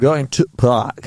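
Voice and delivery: put-on slow, heavy Yorkshire accent; drawn-out Yorkshire vowels. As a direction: drawl it in broad Yorkshire. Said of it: "I think the Yorkshire accent is quite cool".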